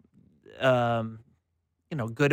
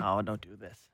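hushed mock dread; 7 semitones lower, 9 dB quieter than usual. Mock dread over bad stats.

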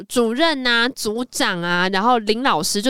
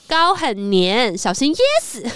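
slow, drawn-out mock jealous jab; favourite catchphrase quoted; slower than usual. Sisters quoting their favourite drama line, slow mock jab. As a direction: savour each word of the jab. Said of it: "我们后来超爱讲这个".

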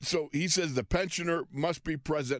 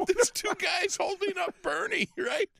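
excited; 14 semitones higher than usual. Real, not acted. Incredulous retelling, shout.

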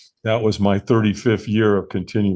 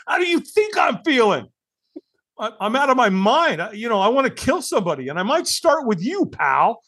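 much higher, hammed-up irritable snap; mock angry retort; 11 semitones higher than usual. Newcomer snapping back at cheery sponsor, hammed-up higher mock anger. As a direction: play yourself as a grouchy sick newcomer. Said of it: "I'm like".

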